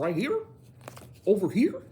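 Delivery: put-on high, loud California accent, rising questions; imitating a California friend's accent. Imitating friends from California in a California accent. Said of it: "It is a totally different accent".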